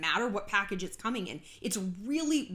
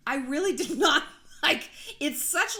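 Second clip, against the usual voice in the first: laughing; 5 semitones higher, 5 dB louder than usual. Real, not acted. Laughing at British slang.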